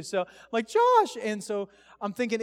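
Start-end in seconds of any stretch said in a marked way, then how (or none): 0.7-1.2 high, loud cry of alarm; re-enacted scream. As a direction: scream the friend's name, acting out panic. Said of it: "I scream too".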